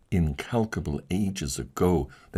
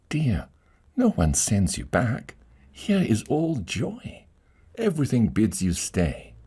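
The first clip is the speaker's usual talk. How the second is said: gentle pleading lady, higher; tender lady; 5 semitones higher than usual. Acted. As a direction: coax him to stay.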